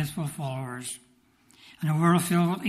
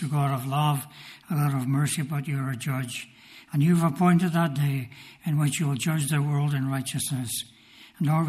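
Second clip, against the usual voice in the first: a preacher pleading with God for the unsaved; earnest prayer. Acted. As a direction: pray it over the congregation with conviction. Pastor leads closing prayer.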